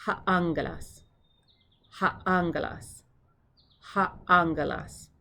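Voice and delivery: "angelas" said ANG-guh-lahs; careful "angelas", no oh at the end; short omicron ending. Shown as a demonstration. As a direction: model "Ha angelas" with a short open final vowel. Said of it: "It's omicron".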